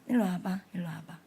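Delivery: soft hushed "come here"; whispered call. Retold or imitated. Teacher calling the rough kid aside, whispered. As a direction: quietly call the child over.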